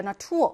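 나 투어 stressed at the end, on 투어; second-syllable stress. Shown as a demonstration. Teacher repeating the word for students, stress on 투어 in 나 투어. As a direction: keep 나 short and lean on 투어. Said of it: "뒤에 이 강세인".

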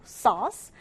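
sauce said without any R sound. Shown as a demonstration. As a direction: contrast sauce against source. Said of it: "sauce랑은 발음도 다르다". (R 없이 sauce)

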